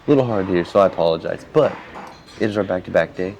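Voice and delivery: slightly hoarse, tired voice; a little hoarse and worn. Real, not acted. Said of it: "my voice is a little hoarse".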